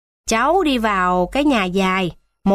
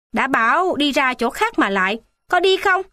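rising to a sharp, high demand; scolding guard; 4 semitones higher than usual. Acted. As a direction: chase the boy off with a snapped question. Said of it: "chú quát".

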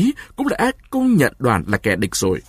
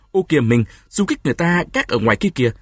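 frightened hurry; 4 semitones higher, faster than usual. Acted. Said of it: "Chị vợ sợ hãi cuống cuồng đẩy chồng ra".

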